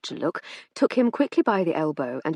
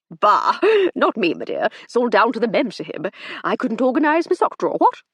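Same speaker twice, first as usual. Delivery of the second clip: put-on hearty laughing old gentleman; jovial old gent; 5 semitones higher, 6 dB louder than usual. A narrator's reading. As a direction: bluster with a chuckle. Sir Hector's jovial chatter.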